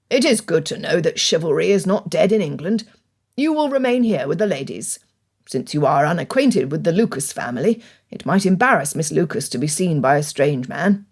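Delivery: put-on dry, low older gentleman; lightly voiced wry father; Mister Bennet voice.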